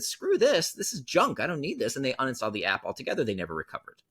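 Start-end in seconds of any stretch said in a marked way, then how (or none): 0.0-1.9 fed-up users. Retold or imitated. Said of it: "people said".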